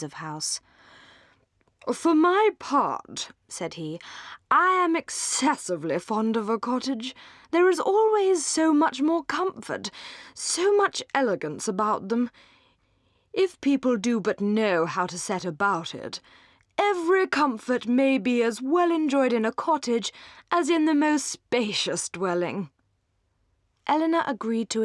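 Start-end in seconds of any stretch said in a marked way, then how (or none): 1.9-3.3 put-on slow, affected young dandy; conceited young gentleman holding forth; coxcomb drawl. Robert Ferrars holds a fop voice. 4.5-22.7 affected dandy praising cottages; conceited coxcomb. Acted. Robert Ferrars holds a fop voice.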